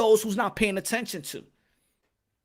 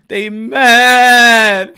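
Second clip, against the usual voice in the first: louder, laughing through the words; 11 dB louder than usual. Real, not acted. Host laughing at the mad Canelo haters. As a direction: crack up mocking the haters.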